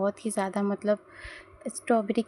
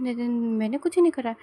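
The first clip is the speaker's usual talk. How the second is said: panicked denial; 3 dB louder than usual. Acted. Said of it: "तो ते कहता है".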